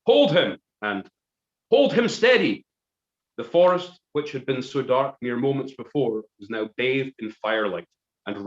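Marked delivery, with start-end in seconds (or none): 0.1-2.6 loud, high barked orders; soldiers shouting. Acted. Redcoat soldiers seize Gordon, shouting orders. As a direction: yell it like redcoats grabbing a man. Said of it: "Hanoverian accents shouted".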